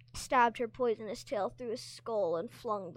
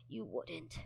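horrified whisper; 5 dB quieter than usual. Acted. Horrified prisoner pleading.

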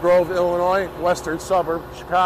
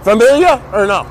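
louder, simplified broken English; talking to a foreigner; 3 semitones higher, 6 dB louder than usual. Real, not acted. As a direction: speak up, keep the words basic. Questioning migrants in broken English.

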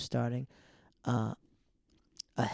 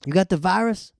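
loud, high-pitched questioning holler; imitated old man; 8 semitones higher, 8 dB louder than usual. Old man at the door asks narrator, imitated loud holler. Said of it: "He goes".

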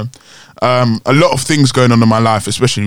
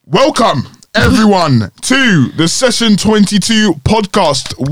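hammed-up podcast host welcome, drawn out; show intro; 5 semitones higher, slower than usual. Host opening the show for listeners, mock announcer welcome. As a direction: open the show like a big announcer. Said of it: "host opens the podcast".

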